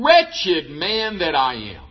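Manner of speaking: slow, low, heavy lament. Retold or imitated. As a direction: sink the words down in slow despair. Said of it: "Paul just vents out".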